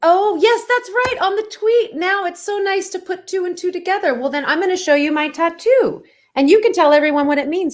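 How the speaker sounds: high, effusive British hostess; British accent. Pretend. Actor offers to show her tattoo, high British accent. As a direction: coo it in a put-on British accent. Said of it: "my British accent".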